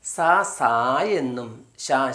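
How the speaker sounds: സാ, സാ and ഷാ said slowly and clearly; teacher sounding out സാ and ഷാ; slow sound demo. Shown as a demonstration. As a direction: model സാ then ഷാ slowly. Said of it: "എസ് എ വന്നു കഴിഞ്ഞാൽ".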